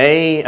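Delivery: ஏய் drawn out as "ay"; English pronunciation. Shown as a demonstration. Teacher repeats the English letter name, demonstrated pronunciation. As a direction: glide from e to y on ஏய். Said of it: "எப்படி உச்சரிக்கிறாங்க ஆங்கிலேயர்கள்".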